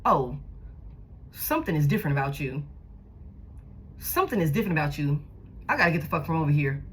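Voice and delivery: low, fast, spooked inner voice; alarmed realization. Retold or imitated. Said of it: "you could've immediately picked up on".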